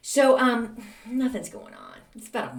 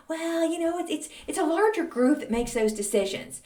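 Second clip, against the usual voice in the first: high voice; 9 semitones higher than usual. Retold or imitated. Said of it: "she's like".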